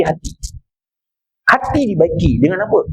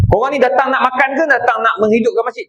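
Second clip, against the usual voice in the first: mock angry; 4 semitones higher than usual. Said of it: "Oh, dia marah".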